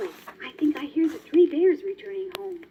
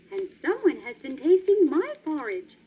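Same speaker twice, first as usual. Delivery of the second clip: middle-sized voice; 3 semitones higher, 4 dB louder than usual. Acted. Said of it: "said Mother Bear in a middle-sized voice".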